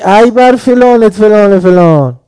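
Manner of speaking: loud, high, slow furious outburst; angry curse. Acted. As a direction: blow up at the kid over the burnt rug. Parent cursing child over burnt carpet.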